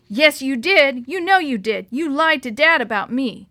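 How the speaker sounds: pin him down, hurt and angry; angry accusation. A narrator's reading. Sister accuses brother in quarrel.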